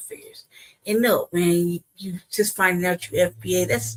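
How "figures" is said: soft whispered figures; whispered aside. Real, not acted. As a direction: breathe it out under the breath. Dismissive aside after sigh.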